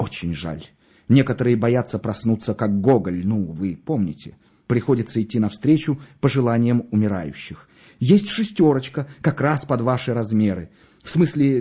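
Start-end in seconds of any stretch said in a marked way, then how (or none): none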